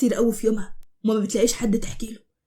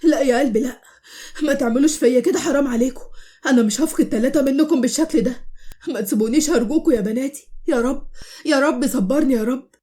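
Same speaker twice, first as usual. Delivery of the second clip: mild acted sobbing. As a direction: beg your daughters not to leave. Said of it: "عمال يعيط ومنهار من العياط".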